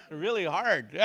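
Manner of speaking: "really hard" hit loud and forceful; emphatic. Shown as a demonstration. Teacher urging force on the K, "really hard" said emphatically. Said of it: "put some emphasis on that".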